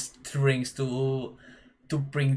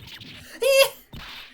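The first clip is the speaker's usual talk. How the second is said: much higher shrill giggle burst; high squealing laugh; 4 dB louder than usual. Acted. Player laughing as the girl faints, high squeal.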